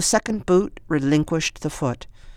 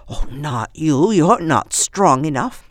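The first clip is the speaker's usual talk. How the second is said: put-on old woman voice; 2 semitones higher, 5 dB louder than usual.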